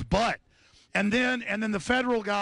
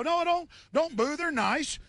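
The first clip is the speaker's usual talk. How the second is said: retold plea; 7 semitones higher, slower than usual. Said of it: "And I go".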